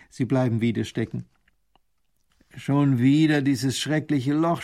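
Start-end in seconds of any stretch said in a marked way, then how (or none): 2.6-4.6 slow disgusted grumble; slow annoyed duke grumbling. Acted. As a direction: scold the pothole. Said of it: "schimpft der Großherzog".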